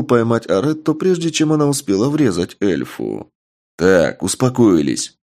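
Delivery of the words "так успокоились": stern. Acted. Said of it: "грозным тоном произнёс я".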